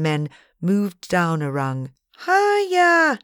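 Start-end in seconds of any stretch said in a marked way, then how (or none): 2.3-3.2 high, loud holler into a phone; piercingly high phone greeting; yelled greeting. A narrator's reading. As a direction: yell a drawn-out hello, pitched right up. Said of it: "yelled Lindsay into her phone".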